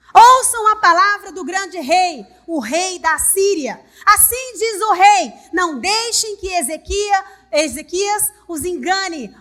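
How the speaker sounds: loud, slow proclamation of a commander; commander's shout. Acted. Assyrian commander shouting to Jerusalem's people, loud and slow. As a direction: shout it down from the walls. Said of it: "gritou em hebraico".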